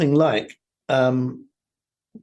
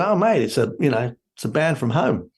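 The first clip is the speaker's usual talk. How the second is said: lightly imitated Australian accent; attempted Aussie accent. Guest quoting an Australian at a party, rough Aussie accent. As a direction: have a loose go at an Aussie accent. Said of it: "I can't quite do an Aussie accent".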